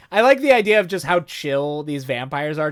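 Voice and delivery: ordinary delivery, nothing marked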